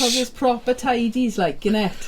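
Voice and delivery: put-on Welsh accent. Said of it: "I can't do a Welsh accent".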